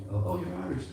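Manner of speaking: high, light mock surprise; mock English reaction. English people spotting an Irish accent, lightly mimicked in a high voice. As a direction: toss it off like a sniffy Brit. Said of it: "they think".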